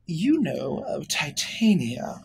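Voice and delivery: stretched, intrigued question; slow probing fey lady. Acted. Fey lady slowly probing the gnome about Titania. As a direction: draw it out with curiosity.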